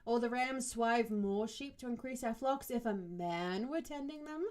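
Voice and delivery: affronted. Acted. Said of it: "with a touch of affront".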